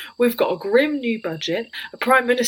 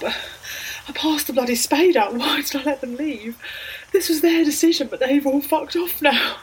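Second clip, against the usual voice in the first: panicky; 6 semitones higher than usual. Acted. Panicking in the pit.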